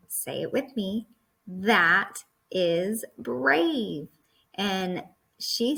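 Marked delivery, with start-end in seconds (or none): 1.5-4.1 very slow and louder, "brave" drawn out; excited. Shown as a demonstration. Teacher leading kids in choral reading, excited. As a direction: lead the class in a loud, drawn-out cheer. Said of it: "So we say it very excited".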